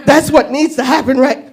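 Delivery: high, giggling way out; laughing excuse to leave. Retold or imitated. Laughing to herself while deciding to leave the bar. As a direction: laugh through making an exit. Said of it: "And I went".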